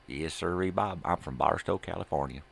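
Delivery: loud, hammed-up Southern accent; Roy. Roy telling where he is from, loud Southern accent. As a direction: answer proudly in a put-on Southern voice. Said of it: "Where'd you get that southern accent?".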